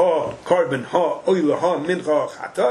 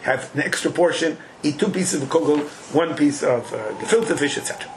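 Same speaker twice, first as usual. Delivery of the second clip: mock host reply. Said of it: "host replies to Reuven".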